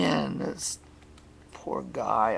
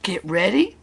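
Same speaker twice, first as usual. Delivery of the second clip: raised, louder race-start call; announcer's ready call; 5 semitones higher, 8 dB louder than usual. A narrator's reading. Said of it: "called the announcer".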